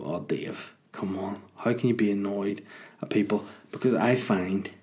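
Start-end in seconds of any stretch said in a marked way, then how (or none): 0.0-3.5 mock listener. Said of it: "you're probably gonna go".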